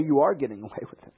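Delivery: a laughing, teasing tempter; mocking laugh. To the congregation, quoting the tempter with a mocking laugh. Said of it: "Or they say".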